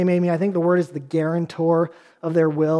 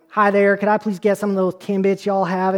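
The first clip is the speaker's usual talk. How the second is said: light put-on Southern accent. Man jokily ordering Timbits at Tim Hortons, mild Southern accent. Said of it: "order with a Southern accent".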